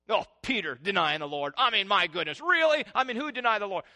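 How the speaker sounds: loud, high, self-righteous tut-tutting; mock the finger-pointing churchgoer; judgmental scoff. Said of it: "we're pretty hard on people".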